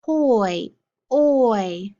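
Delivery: "poi" then its vowel "oi" alone, drawn out; sound card drill. Shown as a demonstration. Teacher drilling sound cards with the class, sound drawn out. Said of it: "get ready for our sound cards".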